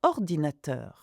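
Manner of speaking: "ordinateur" with the weight on the final "-teur"; stress on the last syllable. Shown as a demonstration. Teacher shows students French final-syllable stress. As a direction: lean on the end of "ordinateur". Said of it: "stress the last syllable of words".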